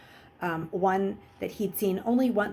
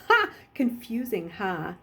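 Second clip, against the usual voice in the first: mocking. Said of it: "he asked mockingly".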